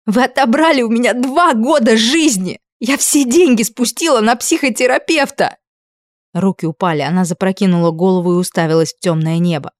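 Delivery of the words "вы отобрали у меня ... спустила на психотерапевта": higher, loud, wounded; bitter furious shout. A narrator's reading. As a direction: accuse them with all the pain.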